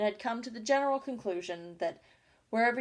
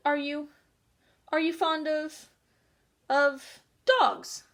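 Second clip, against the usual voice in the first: higher, louder eager question; 7 semitones higher, 6 dB louder, much slower than usual. A narrator's reading. Alice to the mouse, an eager question. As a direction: lean in keenly, hoping to please. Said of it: "went on eagerly".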